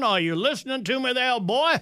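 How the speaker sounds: a hint of cartoon Southern rooster calling out; Foghorn Leghorn. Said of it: "her foghorn leghorn act".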